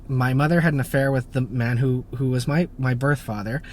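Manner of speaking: ordinary talk, nothing marked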